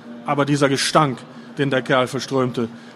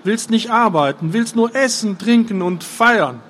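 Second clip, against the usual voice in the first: Fjodor voice; 5 semitones higher than usual. A narrator's reading. Fjodor's long speech.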